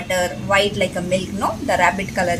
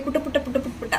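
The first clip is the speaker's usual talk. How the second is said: pattering; 3 semitones higher, 6 dB quieter, much faster than usual. Shown as a demonstration. Imitates rabbit's pattering run.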